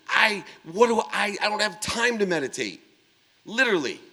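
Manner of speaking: high, loud, boastful tirade; indignant rant. Retold or imitated. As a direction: let it all pour out, bragging and offended. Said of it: "I just couldn't hold back".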